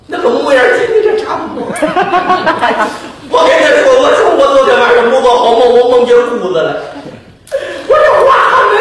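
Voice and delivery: high, fast, laughing complaint; aggrieved monk. Acted. Beaten monk complaining to the vendor, high and fast. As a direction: pour out the grievance.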